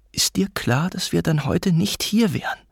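mother's contained challenge; suppressed arguing. A narrator's reading. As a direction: press the accusation, voice held in. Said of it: "energisch, jedoch mit unterdrückten Stimmen".

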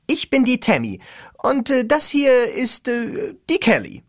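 lightly voiced gushing cheerleader; bubbly cheerleader. A narrator's reading. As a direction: gush it brightly into the mic.

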